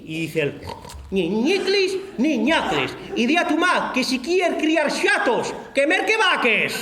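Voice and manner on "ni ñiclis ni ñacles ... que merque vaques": slow, drawn-out comeback; mock solemn retort; slow grumbled retort. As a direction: drag out the words, chastened. Defeated priest's grumbling retort.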